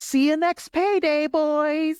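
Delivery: put-on very high, tiny child-actor voice. Retelling a scene where the child wins at cards: tiny child actor voice. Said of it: "in his very tiny, tiny child actory way".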